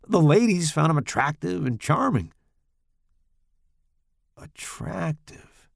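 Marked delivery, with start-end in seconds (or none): 4.4-5.7 scoffing. A narrator's reading. Narrator scoffs at word.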